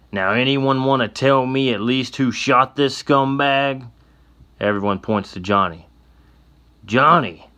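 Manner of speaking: a mean sheriff disgusted with the mess; gruff sheriff. Acted. Sheriff figure voiced.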